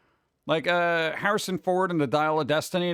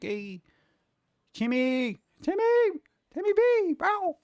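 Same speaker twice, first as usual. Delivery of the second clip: calling out to Tim; 13 semitones higher, slower than usual. Pretend. Fan calling out to Tim Burton, excited and pitched up. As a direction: hail Tim Burton like an old pal, climbing higher. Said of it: "I'm like".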